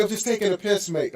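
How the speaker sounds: light mock British accent; host quoting his English friend; imitating British. Light mock British accent. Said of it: "and you say".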